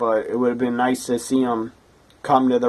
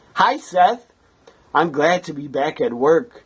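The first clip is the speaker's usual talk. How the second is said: put-on stiff, formal office persona; 4 semitones higher than usual. Doing an impression of Corporate Kane back at work: Corporate Kane impression. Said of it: "this is my impression of Corporate Kane tonight".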